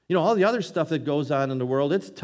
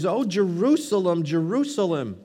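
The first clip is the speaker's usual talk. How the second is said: raised, grieving cry to a city; 3 semitones higher, 4 dB louder than usual. Acted. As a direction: call out in lament, pitched up. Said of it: "he's crying out here".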